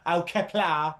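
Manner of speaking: mock Cockney-accented Klingon. Host answering a request for a Cockney Klingon, mock Cockney accent. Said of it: "could you do a Cockney Klingon".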